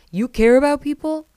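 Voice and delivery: loud, high mock-incredulous echo; incredulous retort. Shep's incredulous echo in quarrel.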